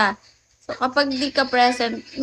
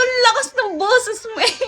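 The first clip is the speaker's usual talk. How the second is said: said through laughter, a bit higher; laughing retort; 7 semitones higher than usual. Retold or imitated. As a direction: tease him while cracking up. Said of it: "sabi ko". (tumatawang biro)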